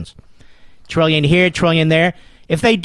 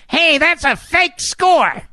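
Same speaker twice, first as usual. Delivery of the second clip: mock White House; 9 semitones higher, much slower than usual. Voicing White House dismissal.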